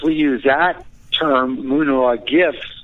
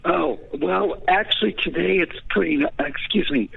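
tired voice giving out, softer; 4 semitones higher, 4 dB quieter than usual. Real, not acted. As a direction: voice fading, giving out. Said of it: "my voice is giving out a little bit on me today".

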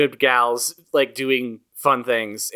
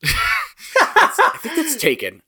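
high-pitched laughing words; much slower than usual. Real, not acted. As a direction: say it through a laugh. Laughing at the joke.

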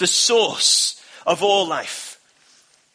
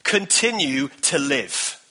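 slow emphasis; 5 semitones lower, slower than usual. Shown as a demonstration. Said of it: "chew on that nugget".

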